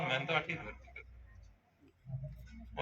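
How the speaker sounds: slow, barely voiced villager's mumble; mumbled patient quote. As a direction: drop to a near-whisper as the patient. (धीमी, फुसफुसाती मरीज़ की आवाज़ में)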